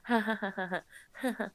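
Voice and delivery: a lightly voiced giggling kid; mocking kid laugh. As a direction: laugh at me like a taunting brat. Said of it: "he's just like".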